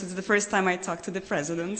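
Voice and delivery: rushed nervous words. Real, not acted. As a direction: hurry it out nervously. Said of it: "I'm a bit nervous".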